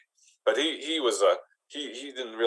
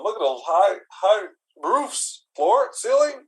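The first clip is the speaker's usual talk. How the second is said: higher, rambling nervous suitor; 4 semitones higher than usual. Acted. Awkward goblin courting a lady at her place, nervously rambling. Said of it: "you don't gotta be so nervous".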